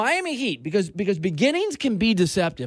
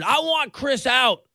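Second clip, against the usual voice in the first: imitating Harden; 4 semitones higher, slower than usual. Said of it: "Fast forward".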